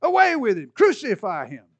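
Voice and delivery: shouted high and loud; crowd shouting. Retold or imitated. The crowd cries out to Pilate, loud shout. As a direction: yell it like an angry mob. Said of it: "They cried out".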